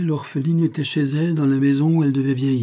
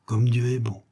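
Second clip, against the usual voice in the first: contained, vibrant. Acted. Woman moved by his tale, in a contained voice. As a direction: hold the emotion in, understated. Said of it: "d'une voix contenue et vibrante en même temps".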